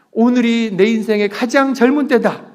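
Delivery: loud rallying declaration. Shown as a demonstration. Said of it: "이해가 되는 분들은 좀 더 크게".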